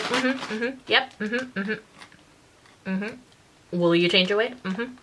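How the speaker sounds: soft, bored mm-hmms; dismissive kids. Retold or imitated. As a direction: brush it off without listening. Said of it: "they're just like".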